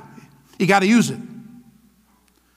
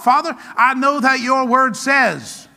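steady, declaiming prayer of scripture; confession of faith. Shown as a demonstration. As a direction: recite the promises like a morning prayer. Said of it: "start your day with some confessions of faith".

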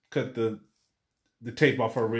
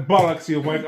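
mock British accent; 4 dB louder than usual. Co-host copies the British slang, mock British accent. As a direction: copy the British insult, amused. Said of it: "mine ended up sounding like an Australian".

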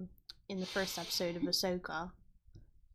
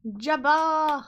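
excited shout; 7 semitones higher, 12 dB louder than usual. Real, not acted. Excited recognition of Jabba.

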